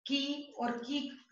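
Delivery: slow "की और की", first short, second long; short versus long. Shown as a demonstration. Teacher sets pupils a task, short then long "की". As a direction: make the first "की" brief, hold the second. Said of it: "इस नियम को ध्यान में रखकर".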